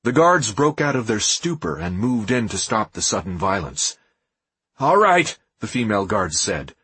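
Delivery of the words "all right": calm. A narrator's reading. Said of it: "her voice calm".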